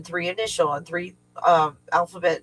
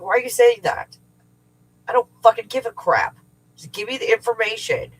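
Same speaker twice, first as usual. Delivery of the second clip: higher, exasperated retold demand; arguing; 5 semitones higher, 3 dB louder than usual. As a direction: snap back in a re-enacted argument. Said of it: "So, yeah, we argued".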